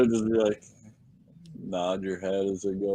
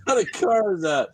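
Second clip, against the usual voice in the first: higher, louder goofy voice; joking mock exchange; 11 semitones higher, 5 dB louder than usual. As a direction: play a clueless know-it-all.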